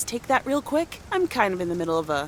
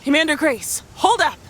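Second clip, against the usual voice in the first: high, loud call across the house; playful calling out; 8 semitones higher, 5 dB louder than usual. Pretend. Mother halting her daughter's space mission, raised playful call. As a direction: hail the little commander urgently in play. Mother calls to child in game.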